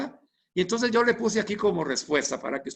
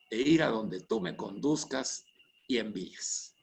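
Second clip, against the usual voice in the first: prayer read aloud. Shown as a demonstration. Teacher models a prayer reply for his students, earnest and measured. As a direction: pray it from the heart, sentence by sentence. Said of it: "se la voy a leer de corrido para que usted vea cómo se escucha".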